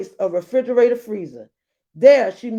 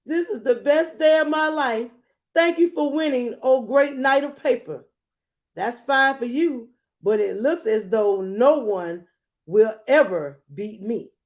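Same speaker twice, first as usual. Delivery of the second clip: somewhat higher, eager thanks; a hint of a pitched-up rock; lightly voiced rock; 4 semitones higher than usual. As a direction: gush thanks to the winner. Rock thanks paper knight.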